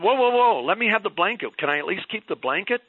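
high, loud, pleading grab for the blanket; a mother begging to keep the blanket; new mother pleading over a pink blanket, high and excited. Acted.

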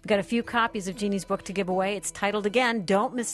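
upbeat announcer read over music; radio host break. Acted. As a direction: tease the next segment like a radio host. Host's break and giveaway read.

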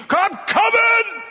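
high, loud, slow shout into the distance; eager call. Acted. Preacher as himself, shouting toward the army building. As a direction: call out as you run toward it.

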